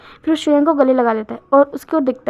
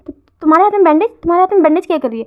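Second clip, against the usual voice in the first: higher, louder, fast alarmed question; shocked question; 4 semitones higher, 4 dB louder, faster than usual. Acted. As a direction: blurt it out in alarm at the bandages. Lover notices bandaged hands.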